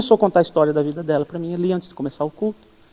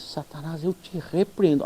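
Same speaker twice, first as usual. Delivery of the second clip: much softer, slow firm command; hushed rebuke; 3 semitones lower, 11 dB quieter, slower than usual. Retold or imitated. Pastor rebuking Satan over the woman, much softer and slow. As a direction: rebuke the devil under your breath.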